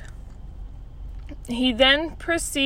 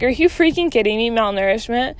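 exasperated; 4 dB louder than usual. Retold or imitated. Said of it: "I'm like".

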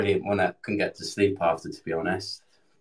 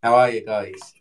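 toothbrush in mouth. Real, not acted. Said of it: "I've got a toothbrush in my mouth".

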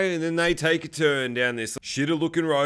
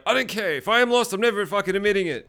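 higher-pitched, lightly acted defensiveness; mock stubborn defiance; 4 semitones higher, faster than usual. Typical guy refusing to admit he's lost, mock defiant. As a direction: imitate a stubborn man digging in.

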